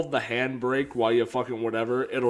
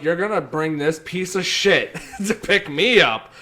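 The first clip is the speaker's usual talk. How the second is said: mock outrage; 6 semitones higher, 8 dB louder than usual. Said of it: "I'm like".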